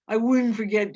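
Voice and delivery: loud, insistent protest. A narrator's reading. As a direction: shout it back in defence. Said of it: "Lenny said loudly".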